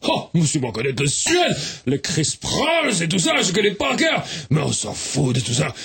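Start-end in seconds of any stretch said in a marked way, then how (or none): 0.1-4.3 put-on Swedish accent. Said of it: "mais quel joli accent!".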